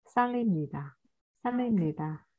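"살입니다" joined as sa-rim-ni-da; linked sounds. Shown as a demonstration. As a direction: model "살입니다" with ㄹ linked onto 입. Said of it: "nối âm hết lên nha". (đọc nối âm "살입니다")

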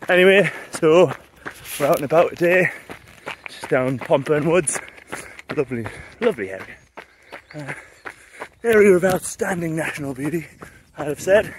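talking mid-run, a little breathless; while running. Real, not acted. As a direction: speak while jogging along. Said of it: "enjoy the run".

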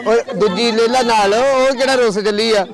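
high drawn-out teasing call. Real, not acted. Calling out teasingly. (ਉੱਚੀ ਨਾਟਕੀ ਮਾਸੀ ਵਾਲੀ ਆਵਾਜ਼)

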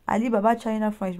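"Alibaba China French" in a heavy French accent, "French" said like "fench"; French accent on "China French", apologetic about the English. Real, not acted. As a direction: read the English words with French sounds, a bit clumsy. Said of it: "désolé pour mon anglais".

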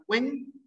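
"cuen" isolated, pitched high and rising; stressed syllable alone. Shown as a demonstration. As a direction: lift "cuen" sharply as the strong syllable. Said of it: "hay una sílaba tónica".

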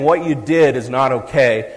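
slow, firm "What you did is not okay"; measured statement. Shown as a demonstration. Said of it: "There's a big difference between saying".

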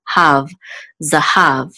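zahav with the accent on "hav"; stress on last syllable. Shown as a demonstration. Teacher showing a student the trope accent, last syllable of "zahav" stressed. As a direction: lean on "hav" at the end of "zahav". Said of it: "the accent is on the last syllable".

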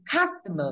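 customer with a strong CUS, falling away; stress on first syllable. Shown as a demonstration. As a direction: hit CUS in customer, light ending. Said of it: "Thế đọc là cust".

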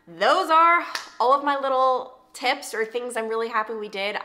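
hoarse, strained, tired voice. Real, not acted. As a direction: push through a hoarse, fading voice. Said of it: "I am losing my voice".

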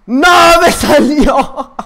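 loud, high-pitched yell of dismay; frustrated yell. Real, not acted. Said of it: "no tienes que gritar para hacer un video". (grito de frustración)

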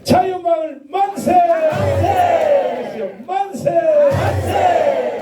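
loud high cheer, each one shouted; rally cheer shout. Real, not acted. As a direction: lead a crowd cheer at full voice. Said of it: "그다음에 자유마을입니다".

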